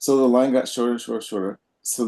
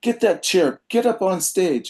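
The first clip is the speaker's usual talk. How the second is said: put-on German accent, pitched up, stage-instruction delivery; 8 semitones higher than usual. Retelling what Miss Roma ordered the speaker to do, imitating her German accent. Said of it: "She had this, German accent".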